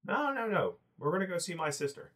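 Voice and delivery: a small goblin insisting nervously. Acted.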